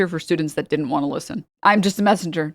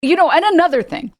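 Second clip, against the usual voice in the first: mock rambling teacher; 10 semitones higher, 4 dB louder than usual. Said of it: "He'd be just sitting there like".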